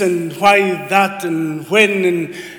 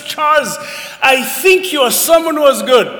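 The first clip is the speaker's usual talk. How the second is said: a lightly voiced elderly lady, higher; old lady; 10 semitones higher, 6 dB louder than usual. Old lady at the church door praising his sermon, lightly voiced. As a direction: mimic the old church lady, pitched up a bit. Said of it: "she comes to the door and she says".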